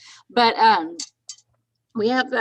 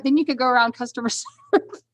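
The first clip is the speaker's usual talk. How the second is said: louder, higher, breaking into laughter; laughing; 4 semitones higher, 4 dB louder than usual. Real, not acted. Co-host teasing Scott about fiddling for customers, laughing. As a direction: tease through laughter.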